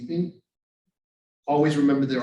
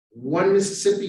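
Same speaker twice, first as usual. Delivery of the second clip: measured count, a touch louder; slow counting demo; counting slowly; 5 semitones higher, 5 dB louder than usual. Shown as a demonstration. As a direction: count it out steadily.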